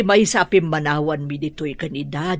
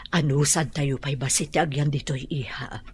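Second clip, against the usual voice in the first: whisper; 3 semitones lower, 5 dB quieter than usual. Acted. Mother confides to daughter.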